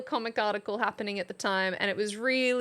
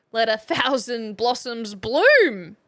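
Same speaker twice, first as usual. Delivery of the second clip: quoting, slow; 7 dB louder, slower than usual. Retold or imitated. Re-quoting the politician.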